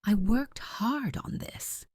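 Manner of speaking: high, drawn-out indignant cry; screaming. A narrator's reading. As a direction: wail it slowly in outrage.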